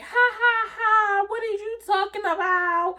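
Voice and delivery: high, giggly laugh into the phone; flirty phone laugh. Retold or imitated. On the phone with a friend, giggling high. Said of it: "I'm walking on the phone like".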